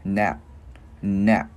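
"Nap" cut short by a K caught in the throat; loud, abrupt "nap" with a swallowed K; stopped final K. Shown as a demonstration. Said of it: "gắn cái chữ K khựng cổ lại".

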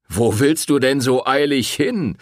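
loud, jeering call; mocking taunt. A narrator's reading. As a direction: sneer it at her as she passes. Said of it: "höhnte der Wirt".

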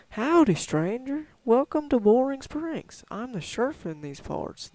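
slow, drawn-out cowboy sheriff greeting, swooping high and loud; folksy western sheriff. Acted. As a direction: play a hearty old-West lawman saying howdy. Voices the game's sheriff.

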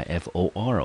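for said alone, like the word for; syllable demo. Shown as a demonstration. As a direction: sound out the first syllable for. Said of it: "我们念成for". (单独示范音节for)

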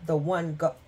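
stumbling on a hiccup, then apologising. Real, not acted. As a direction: talk through the hiccups. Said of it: "I got the hiccups".

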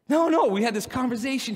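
high, loud insisting; mock indignant defence; excited protest. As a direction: protest eagerly that it worked.

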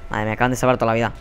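ordinary delivery

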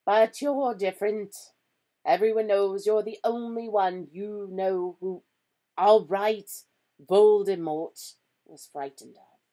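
loud, emphatic, half-admiring insistence; stern professor admitting admiration, loudly; exasperated, admiring. A narrator's reading. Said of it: "sounding half exasperated and half admiring".

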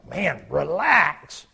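very slow, drawn-out chill tone; lightly mocking laid-back voice; mock relax. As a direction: stretch it out lazily. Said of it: "it's like".

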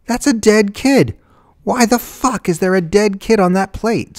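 high, loud, outraged yell; frantic shouting at the whole family; horrified yell. A narrator's reading. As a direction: yell it in disbelief. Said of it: "Susan yelled".

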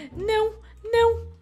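high, loud panicked no's, breaking into a cry; real terror, crying out no over and over; panicked screaming. Real, not acted. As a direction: scream no as the guards find you. Caught by guards in stealth game.

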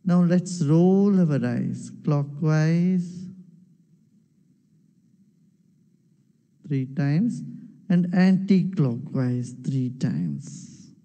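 slow, measured meditation instructions with long pauses; unhurried meditation guide; guided meditation. Acted. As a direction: lead the eye exercise calmly, leaving space after each instruction. Guides a meditation eye exercise.

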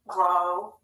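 "Robot" split in two, a gap between the syllables. Shown as a demonstration. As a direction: say "Robot" one syllable at a time. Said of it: "say each syllable".

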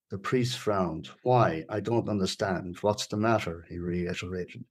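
measured, deliberate storytelling read; story narration. A narrator's reading. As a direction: read the tense scene aloud, pausing between sentences. Reads a story aloud.

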